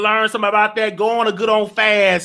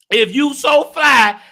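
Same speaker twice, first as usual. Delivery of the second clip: slow taunt; 3 semitones higher, 3 dB louder, slower than usual. Real, not acted. Taunting refrain, slowed.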